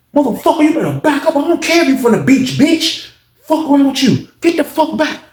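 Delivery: high threat broken by laughs; laughing mock threat. Teller retelling Unc's threat, high and laughing. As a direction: retell the threat while cracking up.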